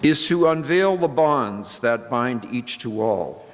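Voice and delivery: a touch of formal reading voice. Acted. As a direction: read it like scripture to the congregation. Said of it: "And he writes".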